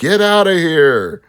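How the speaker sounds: acted-out high action-hero scream. Describing the hero freeing hostages in a shooter game: imitating John screaming. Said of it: "John screams".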